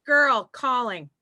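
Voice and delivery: put-on GIRL drawn out slowly, then CALLING; name pronunciation demo.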